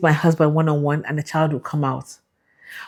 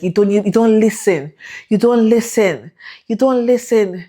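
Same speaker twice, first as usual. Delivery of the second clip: mock angry; 4 semitones higher than usual. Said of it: "And he was so angry".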